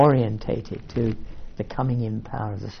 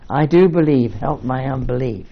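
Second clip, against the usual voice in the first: crying out; 2 semitones higher, 8 dB louder than usual. A narrator's reading. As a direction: cry it out like a desperate father begging. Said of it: "the boy's father cried out".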